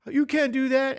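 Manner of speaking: hammed-up outraged student; mock student protest. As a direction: imitate students grumbling about the quiz. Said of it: "people would argue".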